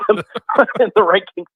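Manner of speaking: laughing through the words; slow words with a laugh. Real, not acted. Laughs mid-sentence at rankings.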